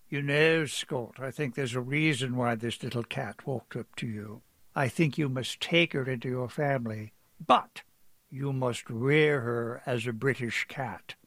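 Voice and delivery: imitating a British embassy officer's accent; lightly put-on British accent, a jump up on "but". Scott retelling the officer's advice, mild British accent. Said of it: "forgive the accent".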